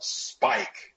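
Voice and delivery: hissed then barked order to the dog; parrot's command. Retold or imitated. Parrot orders the bulldog to attack, whispered then barked. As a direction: sic the dog on him, sly punchline. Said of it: "the parrot looked over at the dog".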